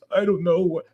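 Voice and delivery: mock kid whimper; imitated sleepy kid. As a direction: pout it like a tired little girl. Daughter's reply retold.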